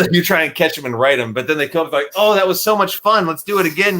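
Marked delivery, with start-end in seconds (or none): 2.1-4.0 high, delighted mock old-timer; gleeful old swimmer. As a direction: play the giddy old person who loved it. Old people enjoying near drowning.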